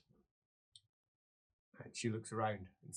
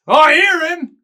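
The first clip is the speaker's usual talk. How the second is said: higher, louder echo of the same words; eerie echo; 28 dB louder, slower than usual. Acted. A voice from behind echoes the tormented man. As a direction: answer from behind like a haunting.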